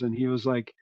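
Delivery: usual speaking voice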